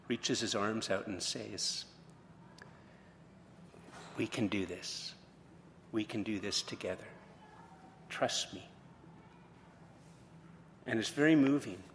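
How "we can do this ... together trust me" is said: gentle reassurance. Retold or imitated. Bob consoles the boy.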